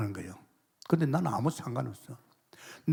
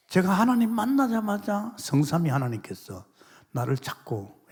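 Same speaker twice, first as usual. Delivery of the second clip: normal talking voice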